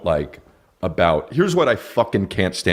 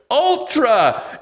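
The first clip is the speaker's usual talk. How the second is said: much higher hype call of the name; hyped shout; 14 semitones higher than usual. Pretend. Comic shouting the festival name, high hype call. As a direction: yell it like a rave host.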